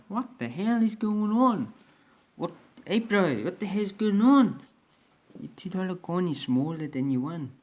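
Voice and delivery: high, loud mock Kiwi accent, baffled. Confused New Zealander baffled by Aussie coins, in a hammed-up Kiwi accent. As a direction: ham up a New Zealand accent, bewildered bro. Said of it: "I won't do a Kiwi accent again".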